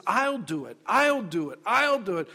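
"I'll do it" climbing with each repeat; building emphasis on each "I'll do it"; insistent repetition. Acted. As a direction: press "I'll do it" harder every time. God repeats promise, emphasis building.

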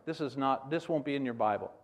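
ordinary talk

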